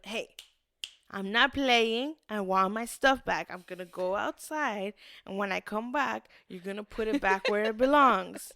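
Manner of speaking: emphatic, punched demand; firm telling-off. Retold or imitated. Woman addressing duendes who hid her stuff, firm demand. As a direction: lay down the law, lightly acted. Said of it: "you have to tell them".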